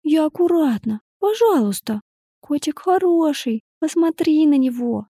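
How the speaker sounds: put-on high, wheedling child voice; begging little girl. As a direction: coax like a small girl begging. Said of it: "законючил ребёнок".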